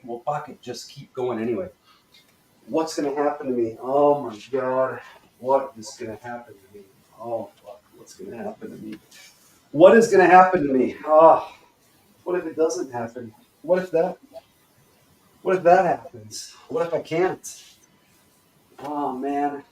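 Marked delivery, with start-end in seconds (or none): 2.7-9.0 worrying. Shown as a demonstration. Coach keeps the worry exercise going, anxious. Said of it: "get into the worry". 9.7-17.6 louder, agitated what-ifs; worked-up worry. Shown as a demonstration. Coach pushes into the tension, anxiously worried. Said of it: "get into the worry". 18.8-19.6 drawn-out worried groan; worrying. Shown as a demonstration. Coach models worry for the class, fretful. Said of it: "really get that worry worked up".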